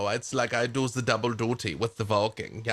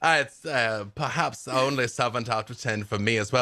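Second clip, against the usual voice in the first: put-on Del Munster accent; 3 semitones higher than usual. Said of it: "The accent is, is not the real accent".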